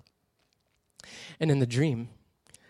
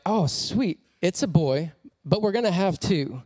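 excited; 4 semitones higher than usual. Retold or imitated. Parents excited about prophetic names.

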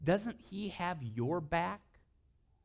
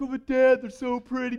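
put-on high, louder little-girl plea; pleading little girl; 11 semitones higher, 12 dB louder than usual. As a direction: play the daughter begging dad. Little girls plead with dad.

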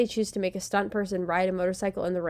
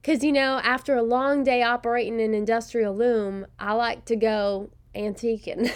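Southern accent; 3 semitones higher, 3 dB louder than usual. Shown as a demonstration. Host redoes the antiquing joke in a Southern accent on request. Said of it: "I can do it with a Southern accent".

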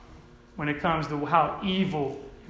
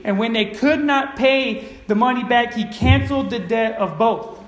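emphatic, slightly raised preacher's reading; scripture reading; 3 semitones higher than usual. Acted. Preacher reads Jesus' parable to the congregation, emphatic scripture reading. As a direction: read the verses out with deliberate weight.

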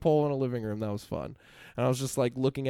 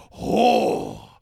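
high, loud, drawn-out mock vaguely Asian accent; hammed-up vaguely Asian accent, shouted slowly; 7 semitones higher, 6 dB louder, slower than usual. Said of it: "I do this vaguely Asian accent".

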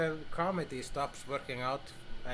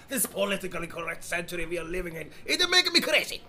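mock rant; 4 semitones higher, 6 dB louder, faster than usual. Mock rant about political correctness.

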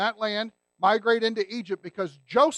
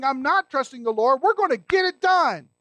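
defiant mock quote; 4 semitones higher, 5 dB louder than usual. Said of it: "taking matters into your own hands and saying".

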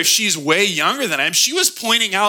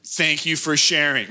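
polite thanks. Retold or imitated. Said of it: "I was like".

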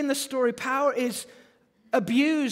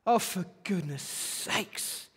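weary exasperation; 5 semitones lower, 5 dB quieter than usual. Acted. Synagogue onlookers fed up with the man, exasperated. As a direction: sigh it out as a fed-up onlooker, voice dropped. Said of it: "you can imagine rolling their eyes".

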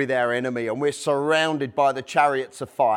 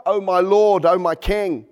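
crying out; 3 semitones higher, 4 dB louder than usual. Acted. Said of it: "she cries out".

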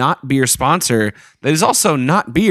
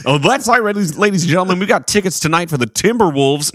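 higher hype announcer; radio DJ voice; 3 semitones higher, faster than usual. Acted. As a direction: hype the crowd like a DJ. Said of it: "radio voice".

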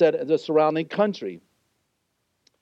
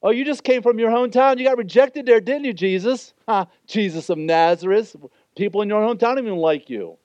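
mock Jesus about his hometown rejection; sarcastic demon; 4 semitones higher than usual. Demon taunting Jesus, sarcastic. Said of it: "the demon kind of being really sarcastic".

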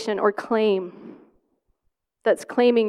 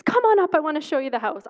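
eager host voice; 6 semitones higher, faster than usual. Retold or imitated. Guy in dream voiced.

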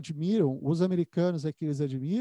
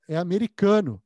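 louder, punchy joke payoff; American colleague telling the joke, louder punchline; punchline delivered louder; 7 dB louder than usual. Retold or imitated. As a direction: land the joke's punchline with a louder voice. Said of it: "Ele falou".

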